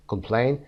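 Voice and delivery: com-PLAIN, weight on the end; stress on second syllable. Shown as a demonstration. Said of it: "لینش صدای بیشتری داره".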